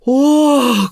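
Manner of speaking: be floored by the news; amazed wow. Acted. Husband learns of wife's wealth.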